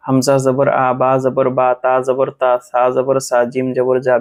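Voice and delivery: আ, বা, তা, সা, জা each ending in an open "aa"; clear a-vowel. Shown as a demonstration. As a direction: recite the letter drill with open "aa" on আ, বা, তা, সা, জা. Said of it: "আকার যুক্ত". (আকার যুক্ত উচ্চারণে আ, বা, তা, সা, জা)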